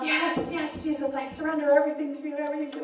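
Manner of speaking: soft, hurried pleading prayer; retold tearful surrender. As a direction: imitate an earnest, tearful yes to Jesus. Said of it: "I'm crying".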